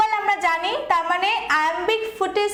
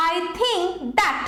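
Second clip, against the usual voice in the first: "think" drawn out, "that" short and light; unstressed "that"; much slower than usual. Shown as a demonstration. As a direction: stress "think", pass quickly over "that". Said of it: "that তাড়াতাড়ি আবার উচ্চারণ হচ্ছে".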